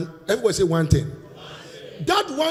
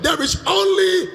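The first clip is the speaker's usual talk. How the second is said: call to congregation; 10 semitones higher, 4 dB louder than usual. Shown as a demonstration. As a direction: shout it for the church to repeat. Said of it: "say it louder".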